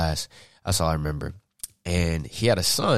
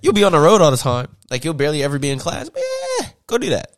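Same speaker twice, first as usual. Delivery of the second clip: high, mocking sing-song of the family; mock them in a high cheery voice; high teasing impression of his family; 13 semitones higher, 5 dB louder, faster than usual. Family voiced in mocking retold quote.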